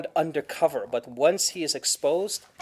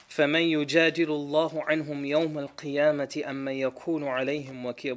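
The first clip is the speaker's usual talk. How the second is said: fast, rising chanted recitation; Quran recitation; much faster than usual. Acted.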